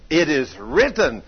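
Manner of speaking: loud, slow proclamation of scripture; emphatic declaration. Retold or imitated. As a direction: declare it firmly, word by word. Wife's repeated answer to doubt.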